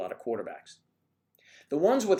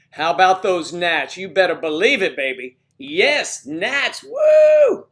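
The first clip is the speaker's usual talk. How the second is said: higher and louder, a sports fan's whoop; excited cheering; 6 semitones higher, 13 dB louder, slower than usual. Real, not acted. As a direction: cheer the team on. Cheering for his team.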